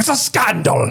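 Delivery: put-on angry character voice. Speaker says they can do angry Hagrid, then does a mock-angry Hagrid voice. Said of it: "angry Hagrid".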